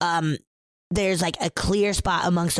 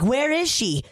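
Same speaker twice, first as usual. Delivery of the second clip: higher-pitched retold panic; frantic dad; 5 semitones higher than usual. Dad asking Ed about his daughter, frantic. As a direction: imitate a worried father demanding answers. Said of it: "And the dad's like".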